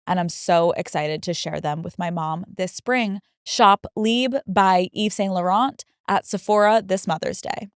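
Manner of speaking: smooth, even podcast ad read. Acted. Host recommending a fragrance to listeners, polished ad read.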